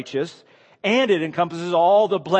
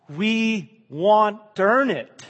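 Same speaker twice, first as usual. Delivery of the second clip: higher, slow, wheedling take on earn; mock-eager voice; 6 semitones higher, 3 dB louder, much slower than usual. Preacher playfully voicing proud people, mock-eager. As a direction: ham up the wish to earn it. Mocking human pride.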